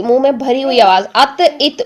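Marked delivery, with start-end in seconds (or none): 1.1-1.8 ات said light, with a thin ت and no echo; the mistake: a thin ات; wrong thin ت. Shown as a demonstration. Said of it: "ات نہیں کریں گے".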